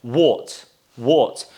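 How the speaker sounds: British "what" with rounded O, repeated; teacher drilling British "what"; British O sound. Shown as a demonstration. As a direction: model "what" twice with an O vowel. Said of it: "why should I pronounce this word as".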